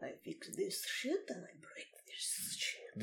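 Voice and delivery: put-on thick Russian accent. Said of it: "You're doing a better Russian accent than me".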